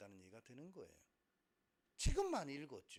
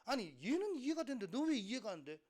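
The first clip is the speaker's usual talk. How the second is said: high, loud teacher's reproach; raised-voice teacher scolding; exasperated teacher; 6 semitones higher, 7 dB louder than usual. Acted. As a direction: demand an answer like an impatient teacher. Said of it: "선생님들이".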